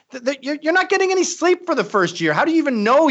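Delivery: way up, disbelieving; high incredulous. Acted. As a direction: squeak it out incredulous. Mocking exasperation.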